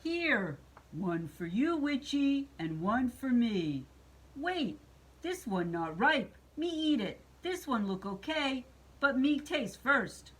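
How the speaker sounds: choppy monster voice, pitch jumping up and down; lightly voiced cookie-gobbling monster; greedy Cookie Monster. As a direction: play the storybook monster sharing, then grabbing.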